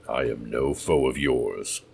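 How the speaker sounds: slow, steady and calm. Acted. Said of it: "Kane spoke calmly".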